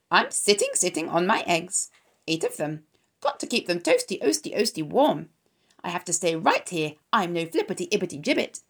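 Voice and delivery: lightly voiced goose, repeating words in a cackle; a broody goose turning down the young pig; fussy goose.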